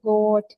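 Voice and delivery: goat with a drawn-out o; long o. Shown as a demonstration. Teacher applying the vowel rule, goat with long o. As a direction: give the o in goat extra length. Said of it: "ओ को ज्यादा sound देनी है".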